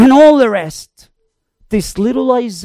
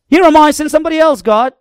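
mock reluctance; 4 semitones higher, 4 dB louder, much faster than usual. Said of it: "He didn't say that".

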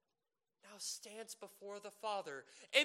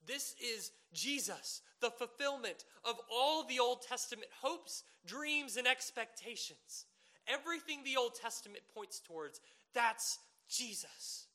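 rising preacher's climax; 5 semitones higher, 7 dB louder than usual. Real, not acted. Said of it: "preaching climax".

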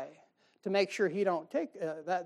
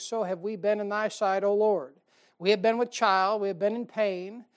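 scripture reading. Acted. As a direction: read it out to the flock like holy writ. Preacher reads Isaiah passage.

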